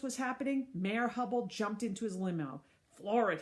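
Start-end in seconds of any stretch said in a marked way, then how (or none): 2.9-3.4 yelling. Acted. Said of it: "he yelled to his driver".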